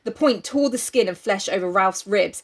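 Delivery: measured dramatic reading; story narration. A narrator's reading. Reader telling co-host of Jack's attack, story narration. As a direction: read it out with weight on the action. Reads the novel aloud.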